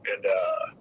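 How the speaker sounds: fighting back tears while apologizing; getting emotional. Real, not acted. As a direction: voice thick with emotion, a light laugh to cover it. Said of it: "I still get emotional".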